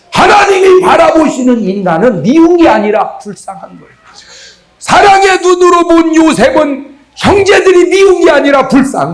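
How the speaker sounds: loud rhythmic proclamation, each line rising high then falling; full-force preaching. Real, not acted. Preacher proclaims God's pity to the congregation, loud fervent preaching. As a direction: hammer each example home.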